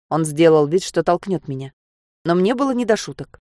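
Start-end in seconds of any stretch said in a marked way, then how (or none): none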